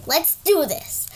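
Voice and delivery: slow drowsy agreement; sleepy. Acted. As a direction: say it half awake and slow.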